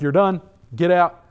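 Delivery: loud, curt mock order; retold expulsion. Leaders kicking him out of the synagogue, loud order. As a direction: throw him out in two short bursts.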